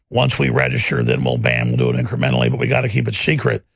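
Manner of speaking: low-pitched, secretive plotting voice; conspiratorial schemer. Retold or imitated. Host voicing secret party documents, low and conspiratorial. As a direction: drop low, as if sharing a covert plan.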